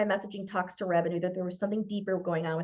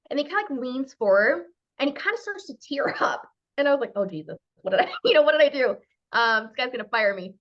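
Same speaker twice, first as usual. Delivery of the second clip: laughing panic; 4 dB louder than usual. Retold or imitated. Retold panic at client tearing up.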